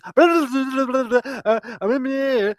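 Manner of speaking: mock Jamaican toasting in a Jamaican accent. Retelling the karaoke singer, light Jamaican accent. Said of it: "literally in a Jamaican accent".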